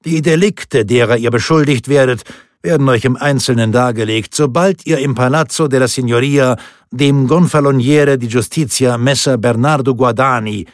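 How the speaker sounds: loud, high formal arrest; booming. A narrator's reading. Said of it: "dröhnte der Hauptmann".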